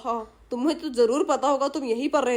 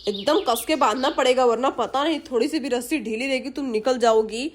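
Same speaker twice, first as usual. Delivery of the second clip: scheming thief musing to himself, lightly acted; a touch of a greedy burglar plotting aloud; lightly voiced thief; 4 semitones lower than usual. Voices thief tying the girl.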